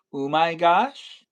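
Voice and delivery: "Oh my gosh" as a slow "ooh my gosh?"; altered pronunciation. Shown as a demonstration. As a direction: question "Oh my gosh" with OO, rising loudly. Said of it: "Is it "oh my gosh" or".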